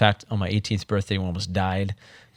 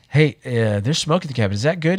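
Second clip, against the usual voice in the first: higher and louder, rising to a nervous question; alarmed radio call; 5 semitones higher, 4 dB louder than usual. Retold or imitated. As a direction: report smoke over the comms, half alarmed. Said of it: "I'm like".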